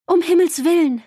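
high, alarmed cry; mother frightened for her child; alarmed exclamation. A narrator's reading. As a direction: gasp it out in sudden fear. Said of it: "rief Mama".

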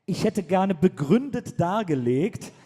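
langsam, betont förmlich und streng; streng vorgelesen. Retold or imitated. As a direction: wie ein strenger Behördenbrief vorlesen. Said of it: "mit einer relativen Strenge gestellt". (förmlich strenger Vorleseton)

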